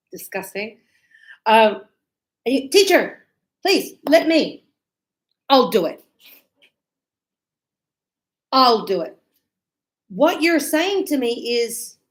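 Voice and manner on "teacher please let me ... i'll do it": eager student. Retold or imitated. Student eagerly offering to vacuum for teacher. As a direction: beg the teacher to let you help.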